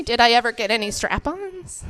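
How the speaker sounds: restrained, disbelieving read-back; repeating back. Retold or imitated. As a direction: say it back carefully, quietly checking. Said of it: "say back to you what you just said".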